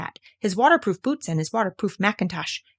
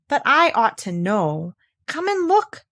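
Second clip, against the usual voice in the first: simply; 4 semitones higher, 4 dB louder, slower than usual. Acted. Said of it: "said Piglet simply".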